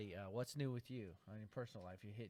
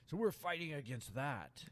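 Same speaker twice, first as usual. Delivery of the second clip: movie trailer voice; 4 semitones higher, 6 dB louder than usual. Shown as a demonstration. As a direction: announce it like an epic movie trailer. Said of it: "Is that your movie phone voice?".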